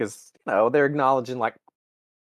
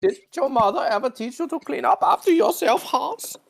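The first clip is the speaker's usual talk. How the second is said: much higher, put-on prissy officer voice; mock scolding officer; 13 semitones higher than usual. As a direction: scold Hans like a fussy German officer. Mocking Nazi officer's scolding.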